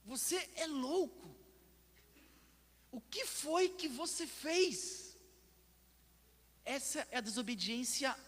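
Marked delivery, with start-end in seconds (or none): 0.1-1.4 higher, drawn-out disbelief; acted-out astonishment, stretched slowly; incredulous sailors' reaction. Sailors reacting to Jonah's disobedience, incredulous. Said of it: "A reação deles é". 2.9-5.2 high, slow, drawn-out disbelief; appalled sailors' reaction. Acted. Sailors confronting Jonah over fleeing God, appalled and incredulous. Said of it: "A reação deles é".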